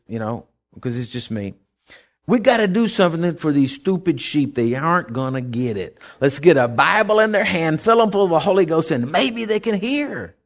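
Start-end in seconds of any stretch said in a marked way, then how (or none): 2.2-10.4 a lightly voiced, exasperated God, barely off his own voice; voicing God. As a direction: toss it off like God sighing over his sheep. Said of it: "I'm just gonna say it like this".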